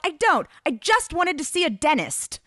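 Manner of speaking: high, loud exasperation; yelling. A narrator's reading. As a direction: yell it in frustration. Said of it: "I yelled".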